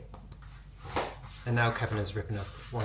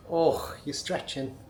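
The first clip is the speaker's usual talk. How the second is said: higher, slow cooing; 6 semitones higher, slower than usual. Real, not acted. Owner cooing at her stretching puppy in a baby voice. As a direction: coo at the stretching pup. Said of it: "how could you not do a baby voice".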